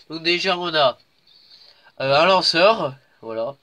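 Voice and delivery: stuffy nose voice; talking through a blocked nose. Real, not acted. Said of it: "j'ai le nez bouché".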